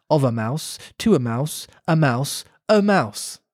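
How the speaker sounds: measured storybook read-aloud; story narration. A narrator's reading. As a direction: read it aloud like a children's classic.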